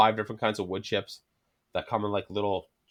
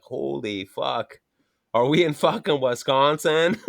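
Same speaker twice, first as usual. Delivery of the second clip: put-on slow, stretched-vowel Canadian accent; slow Canadian-accented mock disbelief; exaggerated Canadian accent; slower than usual. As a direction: drag it out in a broad Canadian accent. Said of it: "what all my American buddies think I talk like".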